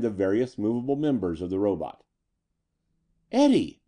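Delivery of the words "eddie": high, loud cry of alarm; a much higher, louder shriek; sudden scream. A narrator's reading. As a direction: scream the name as an urgent warning. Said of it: "Lena screamed suddenly".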